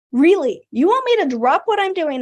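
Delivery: loud, deadpan Really? at normal pitch; flat, pointed repeat of disbelief; dry disbelief. Real, not acted. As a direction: let the disbelief settle.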